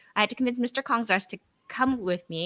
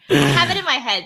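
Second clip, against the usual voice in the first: laughing through the words, louder; giggling while admitting defeat; speaking through real laughter; 9 dB louder, faster than usual. Real, not acted. Laughing at failed accent attempt.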